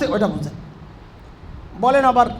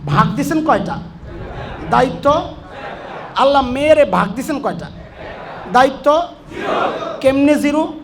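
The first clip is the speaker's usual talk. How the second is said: sermon refrain. Acted.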